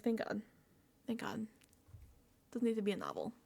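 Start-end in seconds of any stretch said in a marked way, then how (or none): 0.0-1.5 relieved. Real, not acted. Relieved aside.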